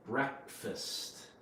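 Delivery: Breakfast said as one word, BREK-fist; short E in Breakfast, weak second syllable; correct pronunciation. Shown as a demonstration. Teacher after explaining where the word comes from, model pronunciation. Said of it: "It's pronounced".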